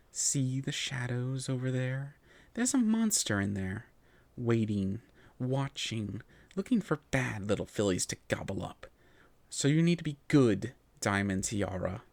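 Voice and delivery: mock-whispered menace, slowed at first, no real whisper; whispered warning. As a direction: lean in and spook her about the monster. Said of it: "leaned in real close to me and whispered".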